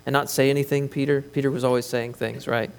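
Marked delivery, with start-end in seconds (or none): 0.1-1.2 exasperated Jesus. Retold or imitated. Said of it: "Jesus answered and said unto him".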